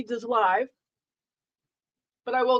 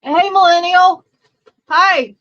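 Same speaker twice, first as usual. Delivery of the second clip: excited greeting; 7 semitones higher, 10 dB louder, slower than usual. Real, not acted. Greeting a viewer who arrived.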